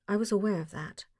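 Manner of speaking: understated, dry and unimpressed; a hint of dry wit, flat and knowing; dryly. Holmes tells the visitor he already knew, mildly dry. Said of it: "said Holmes dryly".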